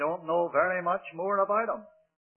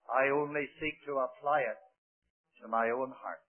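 quiet; 4 semitones lower, 6 dB quieter than usual. Real, not acted. Preacher drops to soft reflection.

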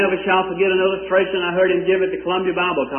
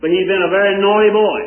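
preacher repeating the phrase louder for emphasis; louder emphatic retelling; 6 dB louder than usual. Shown as a demonstration. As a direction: punch "naughty" louder, with a falling tune. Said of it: "don't expect me to talk with a British accent".

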